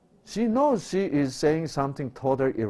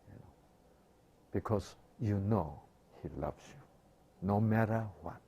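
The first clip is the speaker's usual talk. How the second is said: usual speaking voice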